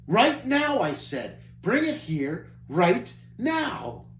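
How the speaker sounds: high, loud spoiled tantrum, slowing at the end; angry snapping. Acted. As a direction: snap it like a furious brat. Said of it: "Passion snapped angrily".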